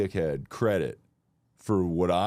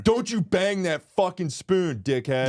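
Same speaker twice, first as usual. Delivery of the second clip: high, loud, slow scold; mock furious scold; 11 semitones higher, 4 dB louder than usual. Scolding the worker for banging the spoon, loud. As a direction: bark it at the server.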